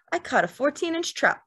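easy boast pitched high; effortless, happy. A narrator's reading. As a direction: brag lightly and contentedly. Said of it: "His voice was effortless and happy".

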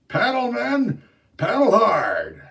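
high, loud urgent shout. Retold or imitated. Day Day retelling how he shouted to his men, loud. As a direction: yell orders over the water. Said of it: "I shouted to my men".

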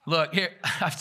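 breaking into laughter mid-sentence; can't stop laughing. Real, not acted. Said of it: "I couldn't even finish it without laughing".

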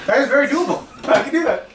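laughing through the words; amused chuckle while answering. Real, not acted. Laughing at the wolf dare.

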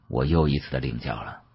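usual speaking voice

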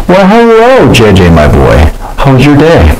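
put-on hearty "my boy" uncle; Mister Tall Hat voice. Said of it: "Mister Tall Hat said".

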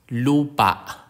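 "lupa" given as an example of stress on pa; careful, isolated "lupa"; final-syllable stress demo. Shown as a demonstration. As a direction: model "lupa" for learners, marking the last syllable. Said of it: "Some words have stress on the last syllable".

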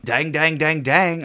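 put-on playful country-accented dang; a touch of Southern twang. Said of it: "Oh, she turning country now".

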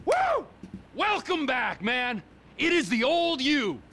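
very high-pitched whooping delight; elated cheering. Acted. Welcoming back the old friend, elated. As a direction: crow with joy at the outburst.

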